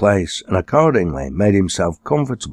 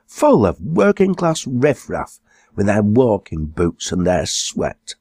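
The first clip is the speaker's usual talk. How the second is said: an indignant, well-to-do wife, pitched up a little; lightly voiced posh lady, scandalised; snooty exclaiming woman; 3 semitones higher than usual. A snobbish wife complaining to her husband about the pub, lightly voiced indignant exclaim. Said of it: "the woman exclaimed".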